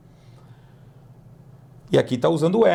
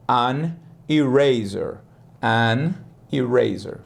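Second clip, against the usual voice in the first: slow an eraser; 3 semitones lower, slower than usual. Shown as a demonstration. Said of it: "slow model takes".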